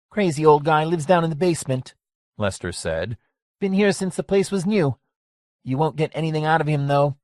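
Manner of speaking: lightly voiced old barkeep, wary; a hint of a cagey old man; old bar owner voice. Lester warns Gracie about a mean guy, wary.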